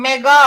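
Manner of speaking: "మెగా" with long, emphatic final aa; model pronunciation. Shown as a demonstration. Teacher naming ten to the power of six, "మెగా" emphatic. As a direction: sound out "మెగా" firmly. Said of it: "అని పలకాలి".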